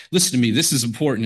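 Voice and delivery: a hint of a fatherly Southern pastor cutting to the chase; Charles Stanley impression. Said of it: "this kind of quiet Southern fatherly voice".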